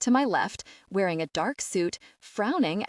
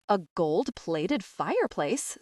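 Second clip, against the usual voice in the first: uncertain; slower than usual. Acted. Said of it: "says the woman uncertainly".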